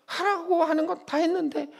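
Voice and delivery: high-pitched acted grievance, point by point; protesting to God. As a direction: list your efforts like an aggrieved believer. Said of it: "라고 따지죠".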